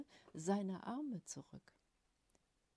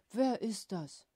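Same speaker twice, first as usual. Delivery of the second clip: hopeful examining; 8 dB louder, slower than usual. A narrator's reading. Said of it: "examinierte er hoffnungsvoll".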